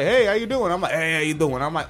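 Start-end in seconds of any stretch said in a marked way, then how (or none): 0.0-0.7 higher, lightly imitated passing coworker greeting; upbeat retold hello, pitched up; coworker's greeting. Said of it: "someone in the factory and they're like". 0.9-1.6 put-on greeting back in an East Coast accent; lightly mocked East Coast reply at normal pitch. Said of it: "you fucking East Coast motherfucker".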